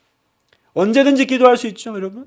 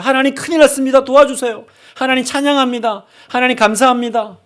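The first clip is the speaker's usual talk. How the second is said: urgent quick prayer; 4 semitones higher than usual. Acted. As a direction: blurt it out in a rush to God. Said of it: "막 급하게 그때그때 이렇게 한마디씩 하는 기도".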